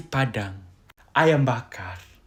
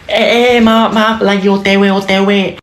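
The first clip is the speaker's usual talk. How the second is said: higher-pitched hurried excuse; flustered apology; 4 semitones higher, faster than usual. Acted. Latecomer excusing themself on the way, flustered. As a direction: plead that you're on the way.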